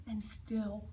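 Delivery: very slow, falling into a whisper; drawn-out rainy refrain. A narrator's reading. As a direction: stretch it out like steady rain.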